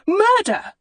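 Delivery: put-on very high, loud child's shriek; panicked high scream. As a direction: shriek it as the boy runs off. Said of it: "he shrieked".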